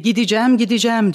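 a hint of Islam's determined voice; quoting his vow. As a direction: repeat his vow with fervour. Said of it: "O da benim gibi".

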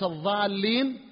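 "الضالين" said with emphatic th (ظ), not dad; tongue between teeth for the ض of "الضالين"; zha for dad. Shown as a demonstration. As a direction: demonstrate ظ at the start of "الضالين". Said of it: "يعني الباقين الماكثين".

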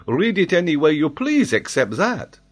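put-on very high, loud French-accented denial; emphatic French geographer. Geographer denies any link to Patagonia, vehement. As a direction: contradict him with great vehemence. Paganel insists.

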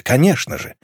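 ordinary delivery

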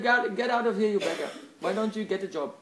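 loud mock-harsh rebuff; harsh dismissal. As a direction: send a beggar packing, half in jest. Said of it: "turned me away with harsh language".

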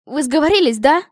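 high, loud indignant accusation; exclaimed accusation. A narrator's reading. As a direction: exclaim it, outraged. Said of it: "воскликнула я".

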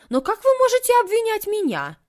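high, loud indignant protest; indignant outcry. A narrator's reading. Housekeeper outraged at the accusation, loud high cry. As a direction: rise up in outrage. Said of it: "Валентина возмущённо поднялась".

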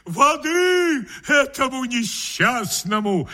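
high, slow stage cry; hammed-up shout for water; melodramatic call. A narrator's reading. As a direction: overplay the alarm for the hall. Actor melodramatically calls for water.

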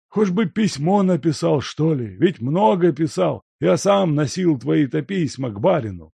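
put-on high, loud grumbling old man; reproachful old servant. A narrator's reading. Servant chiding the guest, high and reproachful. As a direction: chide him for turning up unannounced.

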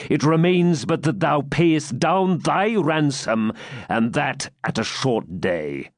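slow, cold menacing knight; stern knight. Acted. Baron gloating over his captive, menace. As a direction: gloat over your power.

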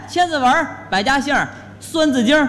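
garbled syllables with added 儿; bone in mouth. Pretend. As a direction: mangle each title like a bone in the mouth. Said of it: "你这嘴里有骨头是怎么着".

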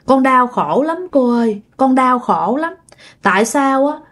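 tearful plea. Retold or imitated. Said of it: "Rồi cổ khóc".

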